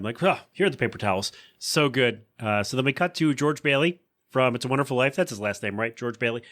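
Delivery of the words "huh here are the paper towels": quick, flat deadpan line; lightly voiced Meg line; imitating Meg's deadpan. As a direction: toss it off sheepishly. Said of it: "we do that all the time".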